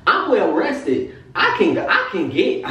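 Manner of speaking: retold excitement, high and giggly; excited. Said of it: "I'm excited".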